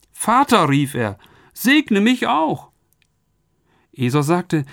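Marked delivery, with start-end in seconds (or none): 0.1-0.7 Vater gerufen, laut und hoch, voll Schmerz; anguished cry. A narrator's reading. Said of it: "schrie er laut auf, voll Schmerz und Bitterkeit". 1.5-2.7 high, very slow, pained plea; anguished plea. A narrator's reading. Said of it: "schrie er laut auf, voll Schmerz und Bitterkeit".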